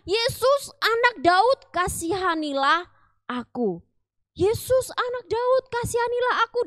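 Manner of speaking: high pleading shout; crying out loud. A narrator's reading. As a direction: call out loud and high to Jesus. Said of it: "Dia berteriak keras". (teriakan keras dan tinggi memohon)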